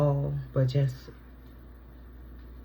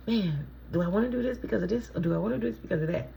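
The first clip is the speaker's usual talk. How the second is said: musing inner voice; 5 semitones higher, much faster than usual. Retold or imitated. Acted inner question.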